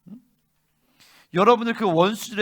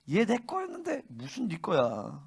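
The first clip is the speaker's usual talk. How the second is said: acted demon protest; 9 dB quieter than usual. Demon claims its victim back from preacher, acted protest. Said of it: "귀신들이".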